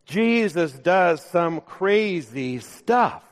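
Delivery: slow, with "crazy" leaned on and "stuff" lifted; preacher savouring the joke title, slow with "crazy" stressed. Shown as a demonstration. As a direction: say "Jesus does some crazy stuff" slowly, stressing "crazy". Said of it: "crazy, I think, was the emphasis there".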